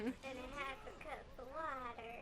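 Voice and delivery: low-pitched, accidental Southern twang; Southern accent. Pretend. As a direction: try an uncertain Southern accent. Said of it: "I don't know, Southern?".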